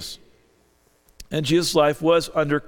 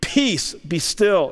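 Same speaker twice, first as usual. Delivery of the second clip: rebuke; much slower than usual. Acted. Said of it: "rebuked the wind".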